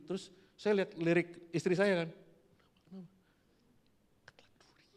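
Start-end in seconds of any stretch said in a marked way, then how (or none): 4.3-4.8 whispered to wife; berbisik. Retold or imitated. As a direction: bisikan pelan ke istri. (bisik-bisik diam-diam)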